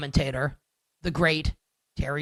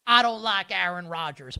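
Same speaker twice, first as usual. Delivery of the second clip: lightly imitated Southern radio host; mock Southern accent; 3 semitones higher than usual. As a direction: put on a slight Southern accent to mimic the host. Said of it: "making fun of someone else's voice".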